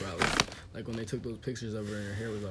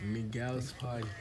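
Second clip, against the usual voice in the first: slow mimicry of a Barbadian accent; lightly copied Bajan accent; imitated Barbadian accent; much slower than usual. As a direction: echo the Barbadian vowels, drawn out. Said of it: "I didn't even know she sounded like that".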